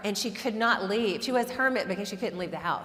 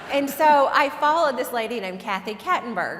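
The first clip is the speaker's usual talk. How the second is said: laughing; 2 semitones higher, 6 dB louder than usual. Real, not acted. Laughing while naming Kathy.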